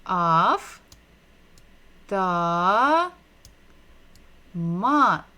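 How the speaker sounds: "af, ta, mat" loud, each syllable apart with long pauses. Shown as a demonstration. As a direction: sound out "af, ta, mat" slowly for learners to follow. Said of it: "if we're going to read it together".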